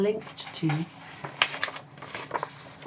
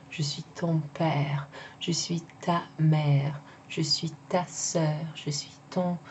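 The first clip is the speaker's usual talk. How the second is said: "ton" and "ta" leaned on in each short sentence; stress on possessives. Shown as a demonstration. Teacher contrasting ton and ta for French club, stressed. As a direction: model "Je suis ton père", "Je suis ta mère", pressing "ton" and "ta". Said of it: "like your father, it would be ton père".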